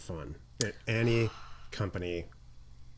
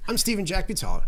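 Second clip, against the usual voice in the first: exaggerated cartoon intonation; 11 semitones higher, 6 dB louder than usual. Mock intro, joke name.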